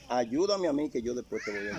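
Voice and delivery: pleading. Retold or imitated. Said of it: "Oiga eso".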